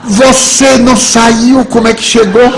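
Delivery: put-on high, loud, drawn-out child's taunt; mocking child. Laughing boy exposes adult's lie, high loud taunt. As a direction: shout it slowly like a gleeful boy exposing a lie. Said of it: "dá uma risada".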